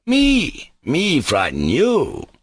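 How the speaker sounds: high, slow disbelieving cry; anguished cry. Acted. Mitya crying out to Grushenka, high and slow. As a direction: throw up your hands and cry out. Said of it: "cried Mitya".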